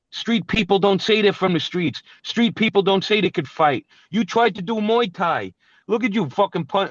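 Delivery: rising fury, jabbing at him; angry rant. Real, not acted.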